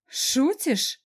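chuckling friend. Acted. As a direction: laugh out the question. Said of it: "хохотнула Дашка".

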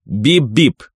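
изображённый голосом сигнал «бип-бип»; прогуди как сирена катера; гудок катера. A narrator's reading. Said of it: "издал тот же звук". (высокий имитированный гудок)

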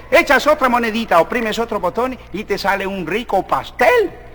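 lightly voiced American speaking Spanish; gringo accent. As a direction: tell it with a gringo accent, rising at the ends. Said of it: "Le dice el gringo".

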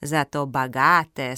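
slow, low, unbothered; calm retort. Acted. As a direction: retort calmly, taking your time. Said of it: "спокойно возразила Зоя".

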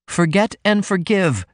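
passionate cry. A narrator's reading. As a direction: beg him to let it go. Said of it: "she cried passionately".

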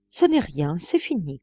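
a touch calmer, settling after a fit; calmed voice. Acted. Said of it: "il reprit d'une voix apaisée".

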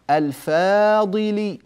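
الفاضل held long and high, slowly; drawn-out stress on الفاضل. Shown as a demonstration. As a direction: stretch out الفاضل on a high note. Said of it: "عند ماذا". (نطق الفاضل ممدودًا بنبرة عالية)

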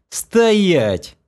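high, loud stop order; sharp command. A narrator's reading. Narrator stopping a drunk girl, loud sharp command. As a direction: bark it to halt her fall.

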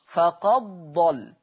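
فقد ضل with the dal merged into the dad, no trace of the dal; slow recitation of فقد ضل, dal swallowed into dad; Warsh merging. Shown as a demonstration. Teacher reciting the Warsh reading to students. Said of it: "يقرأ ورش".

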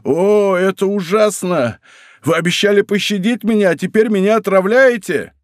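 high, agonized acted reproach; anguished accusing cry. A narrator's reading. Dying soldier accusing his poisoner, crying out in anguish. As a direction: cry out in horror, pitched well up. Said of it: "вскричал он".

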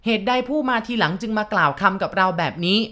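shouting to the room. Acted. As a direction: stand up and shout your case to the mourners. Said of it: "ลุกขึ้นยืนตะโกน".

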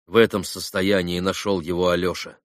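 plain reading voice

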